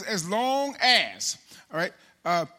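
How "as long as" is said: "as long as" drawn out slowly, each word weighted; stressing as long as. Shown as a demonstration. Preacher points out "as long as" to Tyrese, slow. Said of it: "So he says".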